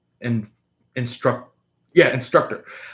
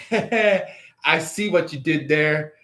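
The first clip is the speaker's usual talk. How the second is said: knowing quip; 3 semitones higher, slower than usual. Retold or imitated. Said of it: "and you're just like".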